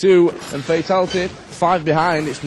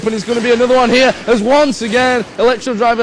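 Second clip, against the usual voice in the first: excited; 5 semitones higher, 4 dB louder than usual. Real, not acted. Another kill building.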